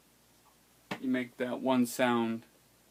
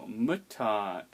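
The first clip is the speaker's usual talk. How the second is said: "mutat" slowly, MU pitched above TAT; higher first vowel; 2 semitones lower than usual. Shown as a demonstration. Teacher showing pitch higher on barred I, MUtat. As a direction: lift the pitch on "mu" of "mutat", then drop. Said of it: "the pitch should be higher on the barred I".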